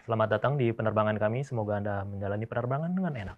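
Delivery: smooth, even cabin welcome; calm pilot announcement. Shown as a demonstration. Pilot welcoming passengers, calm and smooth. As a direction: ease the passengers in gently. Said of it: "pilot kan pasti dia akan ngomong".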